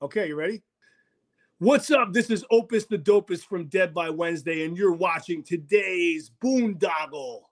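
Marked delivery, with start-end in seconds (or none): 1.6-7.4 hyped radio promo read, punchy start. Shown as a demonstration. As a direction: announce it like a station ID. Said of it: "cut a promo I D for the show".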